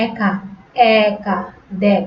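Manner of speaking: একা and দেখ with open "æ", as "æka", "dækh"; বিবৃত উচ্চারণ. Shown as a demonstration. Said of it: "অনেকটা টেনে বলতেছি আমরা". (একা, দেখ-এর এ টেনে অ্যা-র মতো)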